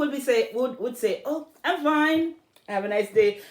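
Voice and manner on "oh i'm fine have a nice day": breezy passerby. Acted. A passerby answering a greeting, breezy and high. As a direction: toss off a polite fine and move on. Passerby's quick brush-off reply.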